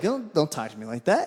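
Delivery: mock heated, angry, fed-up retort. Retelling a run-in with a rude stranger, retelling own angry retort. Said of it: "'cause I was fucking getting mad".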